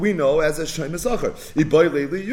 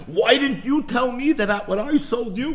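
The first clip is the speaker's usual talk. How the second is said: complaining seller; 9 semitones higher than usual. Retold or imitated. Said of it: "he's telling the Loikeach".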